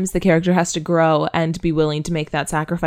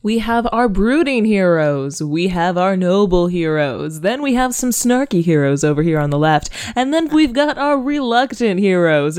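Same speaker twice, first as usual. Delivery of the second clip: game show host. Acted. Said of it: "You sound like a game show host".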